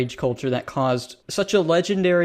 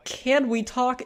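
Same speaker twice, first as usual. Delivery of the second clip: high, rising "Can we talk?" with "can" stressed; incredulous high "Can we talk?"; mocking repeat; 8 semitones higher, slower than usual. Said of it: "he just goes on and says".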